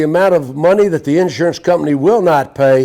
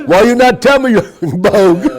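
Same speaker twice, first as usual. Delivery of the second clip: put-on Russian accent; 3 semitones higher, 4 dB louder than usual. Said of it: "He goes in there".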